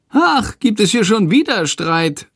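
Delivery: high, grumbling little creature voice; grumbling Shandor. A narrator's reading. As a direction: grouse it out like a cranky bat. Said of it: "meckert Shandor".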